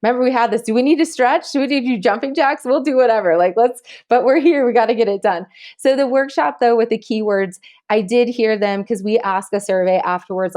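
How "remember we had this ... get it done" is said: high, peppy coaching voice. Retold or imitated. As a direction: wake up a sleepy class. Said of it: "I was like".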